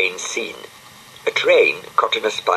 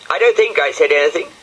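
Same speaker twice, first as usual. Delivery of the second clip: higher, louder, faster, giggling through it; laughing; 10 semitones higher, 4 dB louder, faster than usual. Acted. Brian denies it again, laughing. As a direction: fake innocence while laughing. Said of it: "said Brian, laughing".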